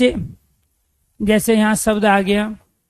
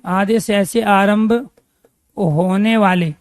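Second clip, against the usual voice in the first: drawn out, each word spaced for writing; slow, deliberate teacher dictation; dictating slowly to the class; slower than usual. Shown as a demonstration. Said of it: "teacher repeats dictation slowly".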